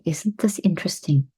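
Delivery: calm, steady demo; calm inner phrase. Shown as a demonstration. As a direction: say it evenly in your head. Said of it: "Notice how my face has taken on a neutral stance".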